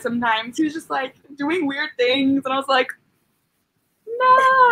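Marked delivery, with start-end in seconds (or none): 4.1-4.7 a sudden high, loud no; shocked, high-pitched no; horrified no. Retold or imitated. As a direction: recoil from it in disgust. Retold horrified refusal.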